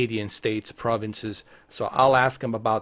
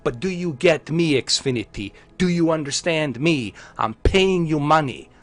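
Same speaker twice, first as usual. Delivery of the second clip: impassioned movie-star plea, slightly raised pitch; Denzel Washington; 3 semitones higher than usual. Pretend. Customer confronting internet provider over money, impassioned demanding speech. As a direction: plead your case like an indignant film lead. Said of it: "Now I sound like a Denzel Washington".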